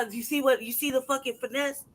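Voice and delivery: ordinary delivery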